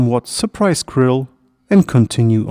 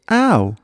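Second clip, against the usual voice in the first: high, short "ow"; pained cry; 7 semitones higher than usual. A narrator's reading. Hedgehog hit by a falling hazelnut, crying out. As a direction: yelp as if bumped. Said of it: "Stan cried out".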